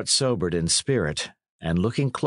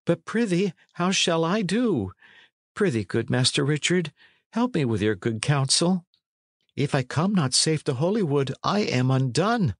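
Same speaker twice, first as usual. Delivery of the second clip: lightly voiced pleading lad, higher; mild helpless appeal, high in pitch; John Matcham; 6 semitones higher than usual. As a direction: beg for counsel in a raised, youthful voice. Plays lad begging Dick's counsel.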